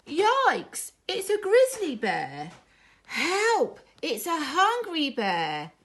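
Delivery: high, loud frightened cries; panicked. Acted. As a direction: cubs shrieking as they run away. Cubs flee scared bear.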